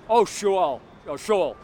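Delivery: mock swearing, punched out and then dropping; mock cursing. Preacher mocking an unlikely swear word, mock cursing. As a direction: exclaim it as a mock cuss word. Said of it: "as a cuss word".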